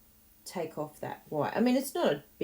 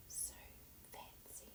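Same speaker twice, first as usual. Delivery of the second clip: whispered; 23 dB quieter than usual. Pretend. Mock admiring her card.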